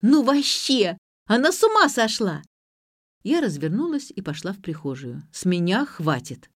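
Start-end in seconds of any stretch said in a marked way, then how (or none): 0.0-2.4 loud, high outraged exclamation; shocked outrage at her madness. A narrator's reading. Ksyusha reacting to the smashed cup, shocked.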